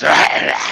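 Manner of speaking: loud garbled growl mimicking an accent; imitated accent noise. Mocking a friend's accent, imitated garbled noise. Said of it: "he just goes".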